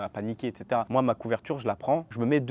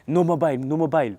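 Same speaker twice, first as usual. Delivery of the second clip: guard's shout; 5 semitones higher, 9 dB louder than usual. Retold or imitated. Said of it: "il fait".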